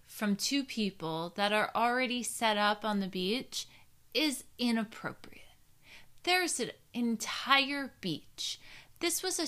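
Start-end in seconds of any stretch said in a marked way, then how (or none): 4.1-5.4 whispering. Real, not acted. Whispered judgmental aside.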